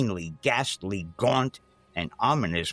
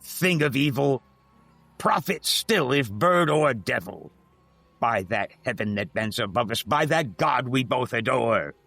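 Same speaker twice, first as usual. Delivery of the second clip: raised pleading; 3 semitones higher than usual. Acted. Narrator begs the raven again.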